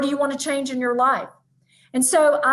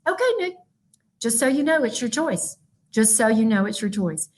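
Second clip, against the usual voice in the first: patient mom voice. Retold or imitated. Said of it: "I would say to Nick Thomas".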